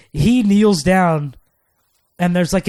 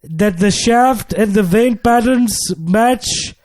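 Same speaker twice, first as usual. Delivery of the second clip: a light put-on African accent, pitched higher; call-center agent in a lightly done African accent; mock African accent, slightly high; 5 semitones higher, slower than usual. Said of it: "I couldn't do my African accent".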